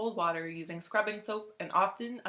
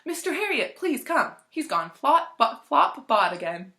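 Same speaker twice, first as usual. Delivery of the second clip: high, louder, agitated pleading; frantic plea, pitched up high; great agitation; 6 semitones higher, 6 dB louder than usual. Acted. Owner phoning the vet about her dog, agitated high plea. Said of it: "rush to the phone in great agitation".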